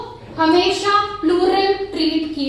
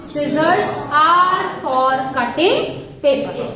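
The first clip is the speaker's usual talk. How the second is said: very slow, drawn-out correct sentence; slow correct version; much slower than usual. Shown as a demonstration. Teacher slowly giving students the correct sentence. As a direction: spell out the right answer slowly. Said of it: "correct क्या होगा?".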